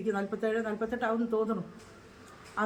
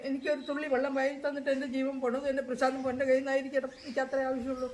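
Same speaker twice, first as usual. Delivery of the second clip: higher, tearful plea; real grief breaking through; mother weeping over her son, pitch raised; crying softly; 4 semitones higher than usual. Real, not acted. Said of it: "അങ്ങനെ കരയാതെ".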